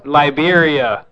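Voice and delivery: LIBERIA stretched out slowly; slow repeat. Real, not acted. Caller repeating the name after "I'm sorry?", slow repeat. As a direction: say Liberia at half speed, drawn out.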